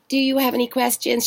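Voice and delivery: lightly imitated robotic customer service voice; a hint of a scripted robot; robotic agent. Airline agent to caller, a hint of robotic script. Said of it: "She sounded totally robotic".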